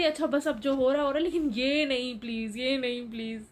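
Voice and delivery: a mild re-enacted plea, begging it to stop; lightly acted frightened begging; retold frightened pleading. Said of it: "मैं कहती".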